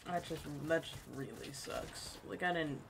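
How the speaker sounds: soft, deflated apology; quietly sorry after an outburst; upset. Real, not acted. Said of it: "I'm just upset".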